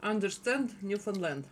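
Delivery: Newfoundland said to rhyme with "understand"; "Newfoundland" as the locals say it; local pronunciation. Shown as a demonstration. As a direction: say "Newfoundland" like "understand", landing on the last syllable. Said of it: "That's how they say it".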